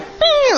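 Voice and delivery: high-pitched little bing; imitated window noise. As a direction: make the window's sliding noise. Imitates car window going down.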